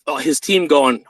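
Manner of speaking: usual speaking voice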